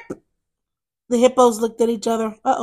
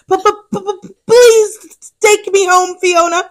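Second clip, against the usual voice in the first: frightened; 5 semitones higher, 4 dB louder, slower than usual. Acted. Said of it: "jumped behind Fiona and shivered".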